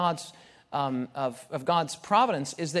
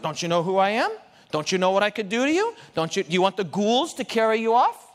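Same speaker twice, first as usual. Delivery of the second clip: mock threat; 5 dB louder than usual. Preacher voices a threatening God.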